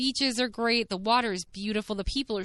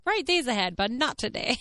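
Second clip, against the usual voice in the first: wry joke; 4 semitones higher than usual. Pretend. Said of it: "I'm like".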